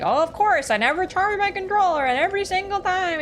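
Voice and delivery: loud, high mock rant; exasperated self-quote. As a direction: wail in frustration, hammed up. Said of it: "being like".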